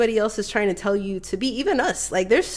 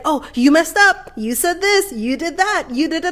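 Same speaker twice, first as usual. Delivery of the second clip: higher, nagging voice of the enemy in the mirror; mocking inner critic; 6 semitones higher than usual. Inner enemy mocking herself over mistakes. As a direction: needle yourself like a nagging critic.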